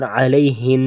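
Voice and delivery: علیہن stopped on a held nasal n; ghunna on pause. Shown as a demonstration. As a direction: stop on علیہن and keep the nasal n. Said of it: "یہ وقفاً ہے". (وقف پر علیہن، غنہ برقرار)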